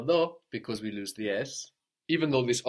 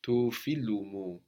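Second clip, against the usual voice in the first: slow teaching model; slower than usual. Shown as a demonstration. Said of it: "So the street of my friend".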